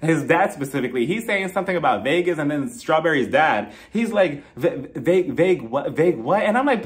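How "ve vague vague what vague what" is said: mock baffled stammer; feigned confusion. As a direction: stumble over the word, pretending not to understand. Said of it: "stop pretending that you're stupid".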